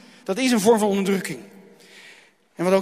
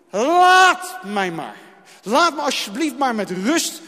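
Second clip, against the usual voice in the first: weary plea; 3 dB louder, slower than usual. Pretend. Voicing a despairing person.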